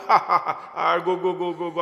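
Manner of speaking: half-laughing, brushing him away; laughing dismissal. Acted. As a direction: laugh through a mocking go, go, go. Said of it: "Hanumanji laughing".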